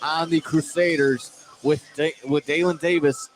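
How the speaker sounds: live basketball play-by-play, energetic; play-by-play call. Acted. Commentator calling a double overtime free throw.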